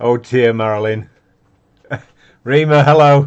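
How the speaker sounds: very loud and high, laughing through the words. Greeting Rima, laughing while talking. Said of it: "I'm laughing away here".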